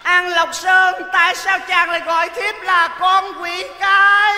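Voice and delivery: a hint of a wounded consort; playing an opera heroine asking her lover; lightly voiced opera lady.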